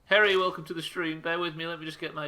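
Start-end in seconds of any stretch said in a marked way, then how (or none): 0.1-1.2 excited welcome. Real, not acted. Greeting a new viewer.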